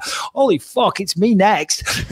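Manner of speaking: high, slowing shocked realisation; mock fighter spooked in the locker room; nervous dread. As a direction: fighter seeing his own fate. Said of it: "And you're like".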